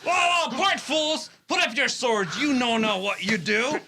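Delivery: commanding shout. Acted. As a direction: bark at them to part. Benvolio breaks up the fight.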